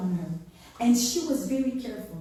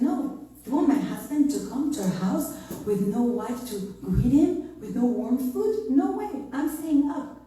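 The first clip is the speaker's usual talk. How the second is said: higher, indignant no way; firm refusal; 3 semitones higher, 3 dB louder than usual. Retold or imitated. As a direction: play her refusing outright, pitch up. Rebbetzin refusing firmly.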